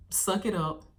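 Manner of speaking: imitating a no-nonsense parent; mock tough scolding. Old-school parent to kid in sports, mock scolding. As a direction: order it without any coddling. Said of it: "We would have been getting yelled at".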